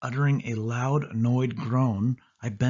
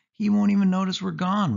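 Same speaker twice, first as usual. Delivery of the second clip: eager persuading; 10 semitones higher, 4 dB louder than usual. A narrator's reading. Sari persuading.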